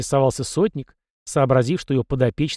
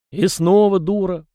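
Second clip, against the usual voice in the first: louder, higher scornful jeer; contemptuous sneer; 6 semitones higher, 5 dB louder than usual. A narrator's reading. Captain mocks the young prince's mistake, contemptuous. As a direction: scoff down at the pupil. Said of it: "презрительно усмехнулся сотник".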